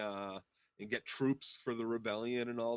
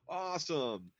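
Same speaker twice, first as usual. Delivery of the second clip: gleeful gloating; 4 semitones higher than usual. Retold or imitated. Voicing Littlefinger's gloating thought.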